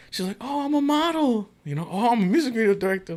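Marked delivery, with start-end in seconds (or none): 0.4-1.5 put-on girly voice, much higher; mock girl bragging. Guy mimics the girl bragging to him, high and girly. 1.9-3.1 put-on quick, much higher girly voice; mock girl bragging. Guy mimics the girl's boast, fast and high.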